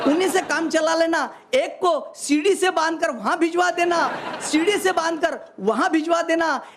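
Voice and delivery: measured stage recital of humorous verse; phrase by phrase to an audience; comic poem recitation. Acted. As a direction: declaim it like a hasya kavi.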